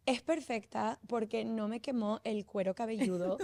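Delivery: laughing while quoting the daughter; can't hold back giggles mid-quote; laughing through a quote. Retold or imitated. Mother quoting her daughter's review while laughing.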